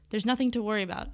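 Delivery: quick, sly reassurance; sneaky. Acted. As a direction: brush off the worry slyly, a bit fast. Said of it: "in that sneaky tone of his".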